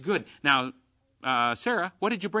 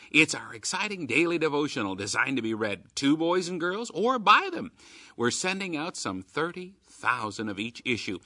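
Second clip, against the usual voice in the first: upbeat radio promo read; chipper 1950s ad. Acted. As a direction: sell it like an old radio ad. Radio promo read for Keys for Kids.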